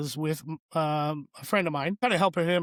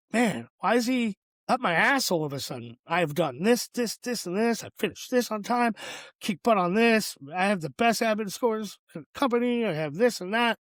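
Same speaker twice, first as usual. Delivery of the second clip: higher, fast heated venting to a friend; venting frustration; 4 semitones higher than usual. Retold or imitated. Venting to a dear friend about his boss, raised and heated. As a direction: let it all spill out, exasperated. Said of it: "I'm just kinda venting".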